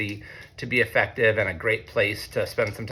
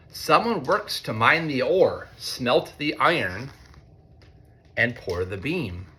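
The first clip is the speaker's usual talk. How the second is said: lightly sing-song storybook reading; reading to children; 2 semitones higher, slower than usual. A narrator's reading. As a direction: read it like a picture book to a class. Reads picture book to students.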